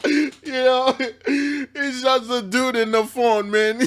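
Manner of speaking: slow words squeezed out between laughs; fighting real laughter; laughing through words. Real, not acted. Explaining the clip to viewers, laughing.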